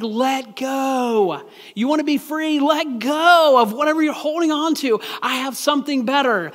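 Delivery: gently pleading divine voice; voice of God. Retold or imitated. God voiced urging the listener.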